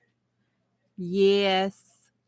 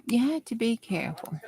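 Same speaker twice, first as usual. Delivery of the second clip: whispered warning, breath only; 3 semitones higher, 5 dB quieter, faster than usual. Real, not acted. Whispering a warning to viewers about ordering steak. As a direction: lean in and whisper it.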